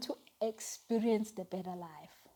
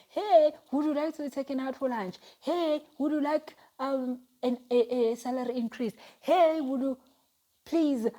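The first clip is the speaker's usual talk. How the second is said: acted eager offers; 4 semitones higher, 4 dB louder than usual. Acts out people offering good things.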